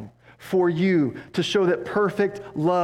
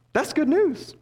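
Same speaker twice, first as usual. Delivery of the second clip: much higher, bursting with good news; joyful exclaim; 10 semitones higher than usual. Real, not acted. Preacher exulting to the congregation over the good news. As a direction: throw it up high like a shout of joy.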